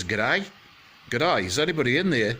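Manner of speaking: put-on Australian-accented call into an empty house; Australian Goldilocks. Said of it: "Goldilocks is obviously Australian".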